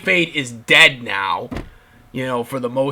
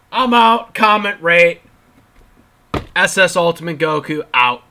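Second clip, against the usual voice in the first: loud sign-off; 7 dB louder than usual. Real, not acted.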